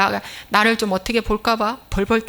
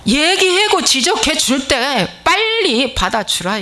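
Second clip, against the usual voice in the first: high, loud and slow, pressing the point home; fervent exhortation; 4 semitones higher, 4 dB louder, slower than usual. Acted. Preacher urging the congregation to accept rebuke, loud and slow.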